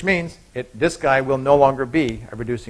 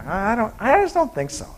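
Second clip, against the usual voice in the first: hesitant lady; 7 semitones higher, 3 dB quieter than usual. Acted. Lady refusing yet again.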